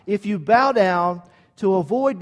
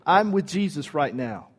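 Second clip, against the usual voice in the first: casual brush-off; 4 semitones lower, 4 dB quieter than usual. Retold or imitated. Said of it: "I would have said".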